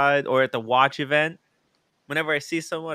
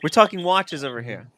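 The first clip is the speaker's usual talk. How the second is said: inviting passer-by; 3 semitones higher than usual. Retold or imitated. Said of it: "I just say".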